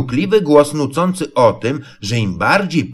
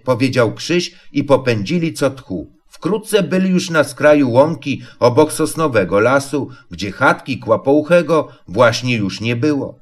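plain reading voice

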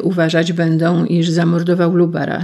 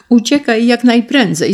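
much higher, louder urging; raised desperate urging; urgent plea; 7 semitones higher, 6 dB louder than usual. Acted. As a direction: push him out urgently. Mother urges son to flee.

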